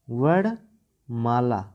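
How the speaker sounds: वर्णमाला said slowly, syllable by syllable; careful pronunciation. Shown as a demonstration. Teacher carefully pronouncing वर्णमाला for students. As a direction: spell out वर्णमाला slowly for the class. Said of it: "sorry, वर्णमाला".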